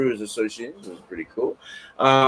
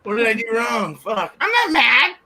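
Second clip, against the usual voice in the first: flustered reply; 9 semitones higher than usual. Retold or imitated. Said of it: "You're like".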